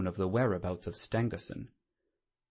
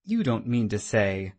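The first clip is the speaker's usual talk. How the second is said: louder, startled disbelief; amazed; 6 dB louder than usual. Acted. Watson to Holmes about the cab, amazed and louder. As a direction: blurt it out in amazement. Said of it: "I cried in amazement".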